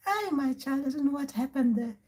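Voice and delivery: acted old granny reconnecting; returning ancestor. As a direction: pipe up softly as a great-grandmother spirit. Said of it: "And they come back".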